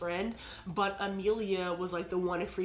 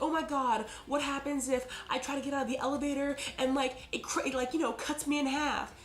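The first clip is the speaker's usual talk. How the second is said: higher-pitched, mildly panicky retelling; mock worried; 6 semitones higher than usual. Woman in the elevator frets about getting out, mock worried. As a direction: imitate a worried woman in a high, hurried voice. Frightened passenger's retold what-if worry.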